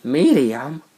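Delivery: high, loud, incredulous cashier; mock disbelief. Barista mocks the customer for ordering a medium, incredulous. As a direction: squeal it like a baffled barista. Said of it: "She was like".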